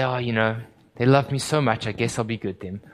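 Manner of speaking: mock casual musing. Parody of a reasoning Jesus.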